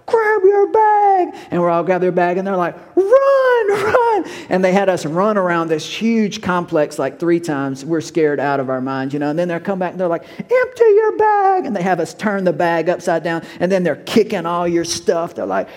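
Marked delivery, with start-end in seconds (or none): 0.1-1.4 high, slow barked command; drill sergeant order. Retold or imitated. 2.9-4.2 high, slow barked command; drill sergeant order. Retold or imitated. 10.4-11.6 high, slow barked command; drill sergeant order. Retold or imitated.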